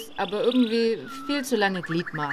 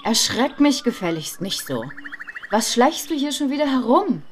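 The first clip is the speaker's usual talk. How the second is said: louder, higher scolding; angry scolding, raised voice; snapping at him; 4 semitones higher, 4 dB louder than usual. Retold or imitated. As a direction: tell him off sharply. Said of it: "blaffte ich ihn an".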